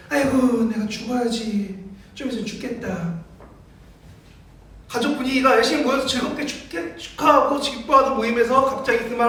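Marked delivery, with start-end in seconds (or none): 0.1-3.2 살짝 흉내 낸 노인의 느린 푸념; 늘어지다 작아지는 노인 한탄을 가볍게 흉내; 푸념하는 노인. Acted. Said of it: "할머니 혹은 할아버지 얘기하는 거예요". (노인처럼 느릿하게 신세 한탄하듯)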